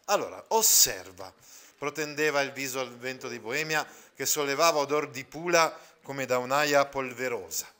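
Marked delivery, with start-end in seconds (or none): 1.8-7.7 measured literary read-aloud to the class; a teacher reading Calvino aloud, steady and clear; story reading. Acted. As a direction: read the novel passage with care. Reading resumes after explanation.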